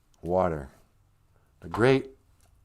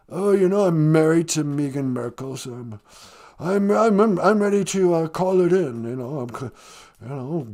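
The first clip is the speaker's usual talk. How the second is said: lightly put-on English accent; a hint of a posh British prince; mild English accent as Prince Harry. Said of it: "Prince Harry".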